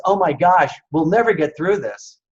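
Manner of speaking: a lightly acted friend losing hope; despairing friend. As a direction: friend mildly despairing about the pandemic. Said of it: "a friend of you says".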